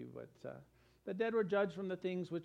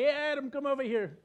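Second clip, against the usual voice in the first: God calling Adam; 5 semitones higher, 5 dB louder than usual. Acted. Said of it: "then he'll say".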